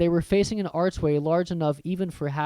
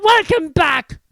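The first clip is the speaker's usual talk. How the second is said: welcome back; 13 semitones higher, 8 dB louder, slower than usual. Acted. Audiobook narrator greeting.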